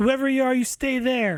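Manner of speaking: very high, shrill, very loud shouting yell. A game master voices a stranger down the hall warning the players, shouting. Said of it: "As someone shouts".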